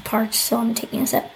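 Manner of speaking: talking around a sip of coffee; words right by a coffee cup; while sipping a drink. Real, not acted. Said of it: "I'm trying to drink my coffee and do this".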